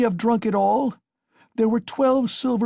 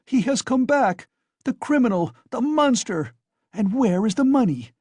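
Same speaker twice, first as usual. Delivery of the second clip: high, loud, furious accusations; frenzied shouting; 7 semitones higher, 4 dB louder than usual. A narrator's reading. Wife screaming at her husband over the money, frenzied. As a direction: berate the drunk husband in a frenzy. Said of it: "she cried out in a frenzy".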